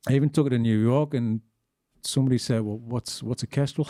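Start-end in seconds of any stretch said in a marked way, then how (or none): 2.6-3.9 laughing quote. Retold or imitated.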